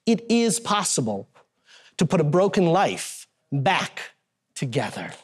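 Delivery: measured, earnest delivery with weighted pauses between phrases; dramatic stage storytelling. Real, not acted. Magician telling of a Ukrainian child during his trick, solemn stage storytelling.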